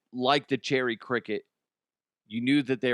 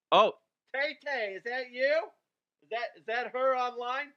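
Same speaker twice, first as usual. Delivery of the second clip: mock surprise; 13 semitones higher than usual. Host pretends a pop star phoned in, mock delighted surprise. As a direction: act thrilled that a star is on the line.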